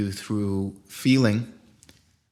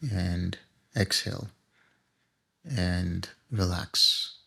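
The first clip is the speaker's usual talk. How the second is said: guided meditation. Acted. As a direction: ease the group into stillness, unhurried.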